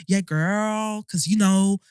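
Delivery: imitating fake-American influencers; affected American, mildly mocking; mock American accent. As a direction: lightly put on an American girl-talk accent. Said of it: "they make their American accent".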